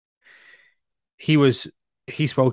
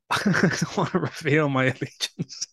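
amused dodge, breaking into laughter; laughing; 3 semitones higher than usual. Real, not acted. Dodging co-host's question about the antics, laughing. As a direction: laugh through the words.

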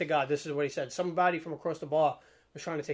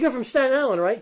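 much higher, louder, laughing; laughing question; 8 semitones higher, 9 dB louder than usual. Retold or imitated. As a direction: ask it cracking up. Wrestler's retold recognition.

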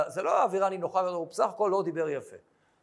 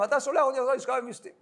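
mock shout; 4 semitones higher, faster than usual. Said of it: "הוא צועק על כולם".

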